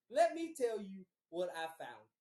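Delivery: measured, mildly heated repeat; telling her off. Retold or imitated. Man repeating his threat to girlfriend, controlled telling-off. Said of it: "I got on her ass".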